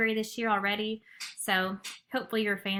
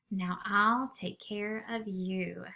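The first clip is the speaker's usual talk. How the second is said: tender; much slower than usual. Acted. Bear tenderly comforting friends.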